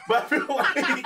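fast words through laughter; giggling through the guess; laughing. Real, not acted.

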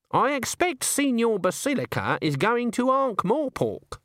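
slow, high innocent tone; sly sweet voice. A narrator's reading. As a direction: feign innocence slyly. Granny sly suggestion.

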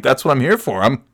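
mock-cocky trash talk; firing back. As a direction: give it right back, swaggering. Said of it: "giving it right back to him".

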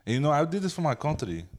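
put-on Spanish-accented ballplayer. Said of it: "it just sound like your dad".

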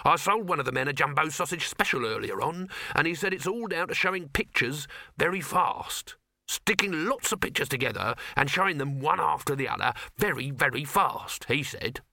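a hint of a know-all hawker; lightly voiced street vendor. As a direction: pass on hearsay in a salesman's patter. Dibbler explains moving pictures.

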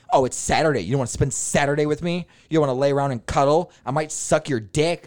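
a light parody of a needy partner; mock clingy girlfriend.

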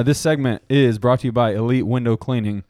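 steady sponsor-read delivery. Real, not acted. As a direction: pitch it like a podcast sponsor spot. Reads the sponsor spot.

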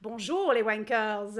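put-on a light Belgian-French accent greeting. Host asked for a French-accented hello to the audience, playful. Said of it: "a bit more Belgian than French".

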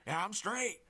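high, strained claim to be fine; mock-casual reassurance. Acts his own dazed reply.

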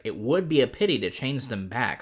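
lightly performed airy quote, lifted pitch; mock-jerk Lucy. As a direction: play her as a casual jerk. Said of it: "is again, like, a real jerk and is like".

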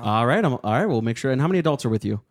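mildly put-on helpful booking agent; polite, businesslike phone manner; lightly performed call center patter; customer service voice. Shown as a demonstration. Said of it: "Can we hear your customer service voice?".

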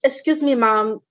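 light French-tinged Haitian English; Haitian accent. Retold or imitated. Eye examiner to patient, lightly imitated Haitian accent. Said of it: "hear the French in it".

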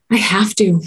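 whispery sighed reply, imitating a small child; mock-weary, nearly voiceless; resigned sigh. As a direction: sigh it out as a put-upon kid would. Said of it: "kind of sighs and shakes his head".

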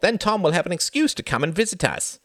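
high, cheery suggestion; jolly uncle making plans with a smile; smiling. A narrator's reading. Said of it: "smiled Reginald".

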